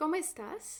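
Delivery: question-like rising tone at the end of estás. Teaching Spanish phrases, reading a question aloud with rising question intonation. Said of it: "I'm kind of lifting my tone of voice".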